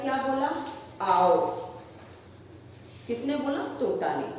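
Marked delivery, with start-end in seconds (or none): 1.0-1.6 sweet voice. Acted. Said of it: "मीठी आवाज में बोला".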